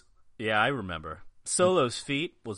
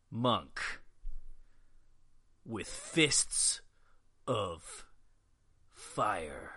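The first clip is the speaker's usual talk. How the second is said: dramatic narrator voice; 3 semitones lower, 3 dB quieter, much slower than usual. Acted. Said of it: "do the voice".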